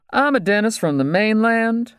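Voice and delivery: high-pitched, put-upon dentist; pleading mainland dentist. Acted. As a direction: plead your case in a high voice. Voices the dentist.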